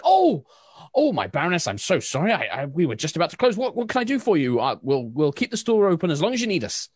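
high, fast flustered shopkeeper, ending in a whisper; flustered baker. Acted. Susan flustered at closing time.

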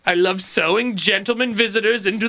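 lightly voiced old-time dater; hint of an antique lonely-heart; sixteen-hundreds dater. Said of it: "back in the sixteen hundreds".

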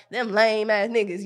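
put-on a light, slow Atlanta accent. Quoting a rapper's line to her co-host in an Atlanta accent. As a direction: drawl it out like a lightly done Atlanta guy. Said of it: "that's my Atlanta accent".

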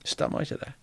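whispered, gentle question; soft question. Retold or imitated. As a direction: ask it softly, almost breathless. Gently asking the caller about longing. (hvisket, varsom spørsmål)

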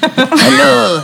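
pirate-like French accent. Shown as a demonstration. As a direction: attempt French, land on pirate. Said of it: "it always sounded like a pirate".

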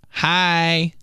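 a bright little high hi; kind of excited. Retold or imitated. Girl with gum greets a guy, kind of excited. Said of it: "Like, kind of excited".

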